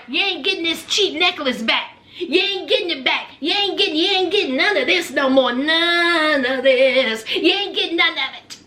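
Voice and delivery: rapid indignant rant, stretching one refusal; mock indignant refusal. Girlfriend refusing to give back the necklace, mock indignant. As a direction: rattle off the refusals, drag one out.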